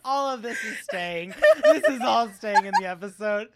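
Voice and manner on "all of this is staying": breathy laughing whisper. Real, not acted.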